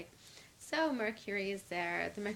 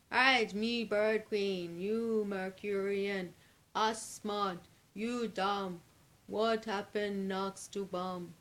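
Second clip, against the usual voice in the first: slow, louder caveman-style talk; mock simple bird speech; 5 dB louder, slower than usual. Bird Queen mocks the Mercurians, slow and loud. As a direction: talk slow and dumb on purpose. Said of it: "she goes".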